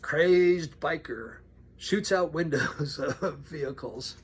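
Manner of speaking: drawn-out, emphatic headline read; newspaper headline. Retold or imitated. Preacher reading a shocking headline to congregation, mock headline voice. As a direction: announce it slowly like a big headline. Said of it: "the newspaper, and it says".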